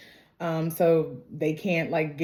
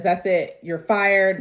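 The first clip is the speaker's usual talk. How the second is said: slightly raised, imitated boss's outburst; mock angry firing; 3 semitones higher, 6 dB louder, slower than usual. John to his partner in a fight, mildly acted anger. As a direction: retell the firing with a punch of volume.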